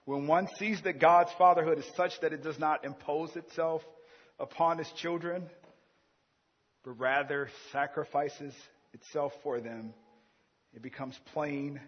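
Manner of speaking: impassioned second reading; emphatic reread. Shown as a demonstration. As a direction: press the key words. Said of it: "And he says this about God".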